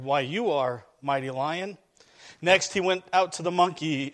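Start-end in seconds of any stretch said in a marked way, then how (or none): 0.0-1.8 mildly timid, lower-pitched reply; understated fear from a humbled giraffe; fearful. Acted. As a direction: meekly give in to the lion. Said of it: "Fearful, the giraffe answered".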